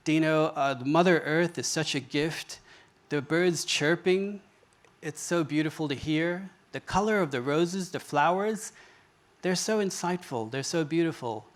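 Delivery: unhurried, mildly appreciative retold voice; changed, gentler speech. Inmate sharing his walking meditation with the teacher, gently appreciative. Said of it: "the speech completely changed".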